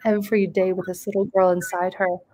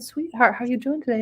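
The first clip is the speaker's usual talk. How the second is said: tender voice; 3 semitones higher, faster than usual. Retold or imitated. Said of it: "I checked in and I said".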